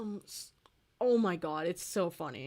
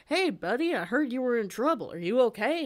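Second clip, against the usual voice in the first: higher, friendly concerned voice; kindly cowboy robot; 4 semitones higher, 5 dB louder than usual. Retold or imitated. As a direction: check on a buddy, lightly voiced as a kindly cowboy. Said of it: "he's very tender, very kind".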